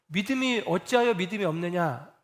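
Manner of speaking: 사랑 담긴 다정한 꾸지람; fond gentle rebuke. Retold or imitated. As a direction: reproach softened with affection. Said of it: "이게 어떤 꾸짖음이냐면 이런 겁니다".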